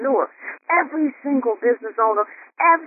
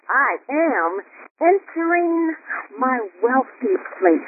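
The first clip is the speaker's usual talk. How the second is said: entering drawn out and higher, slow; slower, lifted retake; 4 semitones higher, much slower than usual. Shown as a demonstration. Host repeating the affirmation with more feeling, slow. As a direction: lean into entering, savour it. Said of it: "Let's say that one one more time".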